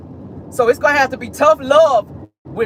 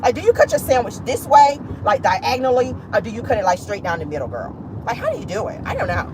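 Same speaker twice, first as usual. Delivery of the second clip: put-on gossipy girlfriend; 4 semitones higher than usual. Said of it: "you come out talking like that".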